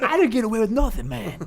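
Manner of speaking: high, protesting put-on voice; amused denial. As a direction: imitate a man laughing off an accusation.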